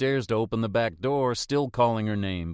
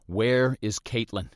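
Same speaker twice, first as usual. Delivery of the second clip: fearful question; 3 dB louder than usual. Acted. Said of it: "I ask".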